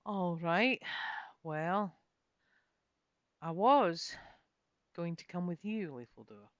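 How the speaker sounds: halting, unsure start; hesitant. Acted. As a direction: stall before the hard news. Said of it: "I explained hesitantly".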